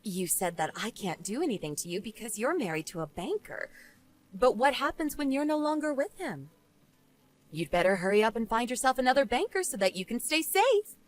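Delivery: understated dismissive woman; unsympathetic rebuff. Acted. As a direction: coolly refuse the blame. Jane coolly threatens Eleanor.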